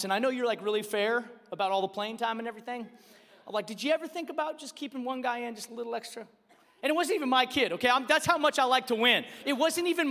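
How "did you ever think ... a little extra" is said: soft, quick, careful ask; imitating a polite parent's nudge; tentative suggestion. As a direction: float the idea gently and quickly.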